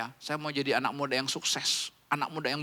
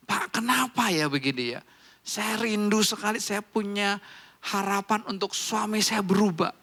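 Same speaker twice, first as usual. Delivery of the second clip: lightly voiced pleading church member, pitched up; congregant confiding; 5 semitones higher than usual. Church member telling the pastor about an unchanged husband, pleading. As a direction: pour out a marital disappointment to the pastor. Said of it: "tapi seseorang ketika dia menceritakan".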